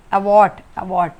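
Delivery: aborट very slow, opening a clear short आ; slow demo of the first vowel. Shown as a demonstration. Teacher models aborट for students, very slow. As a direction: draw out aborट so the आ is heard. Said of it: "आ की आवाज़ आ रही ना सब में".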